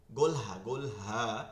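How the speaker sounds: "গোলহা" slow and low, with a deep h; low, weighty "গোলহা", slowly articulated; deep resonant sound. Shown as a demonstration. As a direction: draw out "গোলহা" from deep in the throat. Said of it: "এটা গম্ভীর আওয়াজ হয়".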